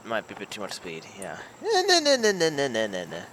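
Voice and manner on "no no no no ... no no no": desperate no, fading. Real, not acted. Putt going past.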